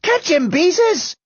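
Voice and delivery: high, drawn-out urgent cry; urgent call. A narrator's reading. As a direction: call to a friend to grab him. Boy calls to friend mid chase.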